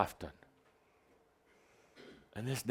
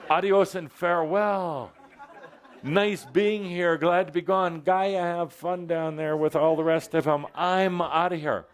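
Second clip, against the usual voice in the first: mock farewell; 5 semitones higher than usual. Mocking a departing human.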